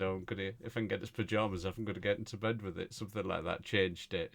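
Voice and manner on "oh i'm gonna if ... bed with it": quick retold line. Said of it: "I think I said".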